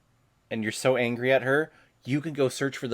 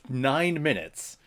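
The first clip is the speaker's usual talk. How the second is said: ordinary talk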